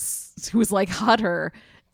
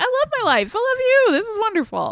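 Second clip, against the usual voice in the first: very high-pitched, giddy goofball voice.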